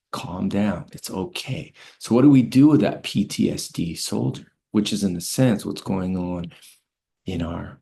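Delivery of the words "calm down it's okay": softer soothing. Retold or imitated. Sergeant soothing panicked soldier.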